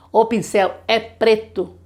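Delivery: slow, clear sentence; slow example. Shown as a demonstration. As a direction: model the sentence for a child. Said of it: "slow example sentence". (frase lenta de exemplo)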